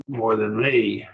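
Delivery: ME stressed and drawn out; slow down and press on ME. Shown as a demonstration. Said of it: "and I raise, just raise my voice a bit".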